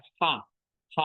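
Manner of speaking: "H" said with an audible rough breath. Shown as a demonstration. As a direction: sound the "H" as a puff of air. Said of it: "napas yang kasar".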